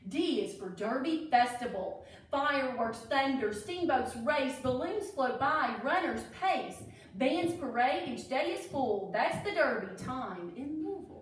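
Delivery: sing-song rhyme read aloud; reading to children. A narrator's reading. Teacher reading a Derby rhyme book to kids, sing-song. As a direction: read the verse like a storybook.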